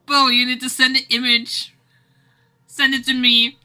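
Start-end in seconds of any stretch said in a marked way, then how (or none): none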